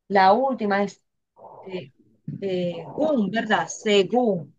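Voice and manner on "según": "Según" split se-GÚN, weight on GÚN; teacher's demonstration of "Según", ending stressed; stress on last syllable. Shown as a demonstration. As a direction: draw out the final syllable of "Según". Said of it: "La última sílaba es".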